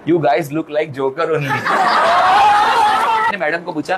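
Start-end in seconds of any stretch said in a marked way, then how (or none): 0.1-1.4 put-on slow, amused old lady teasing; old lady mocking. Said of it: "देख के बोलती है". 1.4-3.2 real high laugh. Real, not acted. Laughing at madam's joke.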